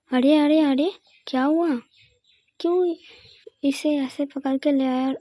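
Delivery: lightly voiced older woman, puzzled; an "arre, arre" of worried surprise from the elder; concerned mother-in-law. Mother-in-law sees daughter-in-law dragging the girl, lightly voiced worried elder.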